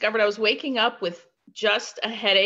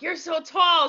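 laughing retold greeting; 7 semitones higher, slower than usual. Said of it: "I'm like".

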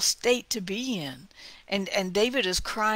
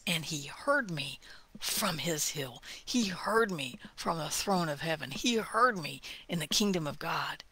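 whispered; 4 semitones lower, 6 dB quieter than usual. Acted. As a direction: whisper it like a promise. Intimate scripture whisper.

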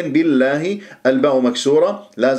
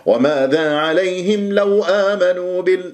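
higher-pitched faulty recitation; mock-scolding recitation, raised pitch; wrong, as if scolding; 4 semitones higher, slower than usual. Shown as a demonstration. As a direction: chant it higher, as if calling them out. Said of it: "ما تصرخ عليهم".

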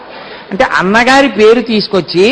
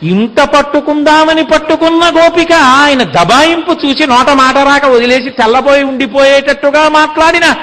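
delighted; 5 semitones higher than usual. Real, not acted. Preacher's rising delight at Krishna.

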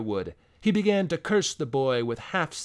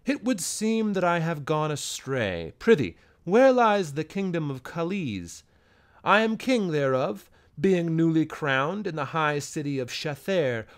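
soft courtly speech. Acted. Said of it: "using soft words of a courtly speech".

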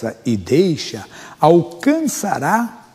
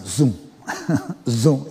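car noise imitation. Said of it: "os barulhos do carro assim".

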